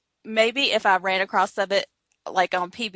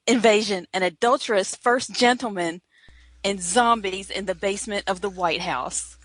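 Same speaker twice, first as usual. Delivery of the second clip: horror trailer voice. Acted. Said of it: "It's a trailer for a play".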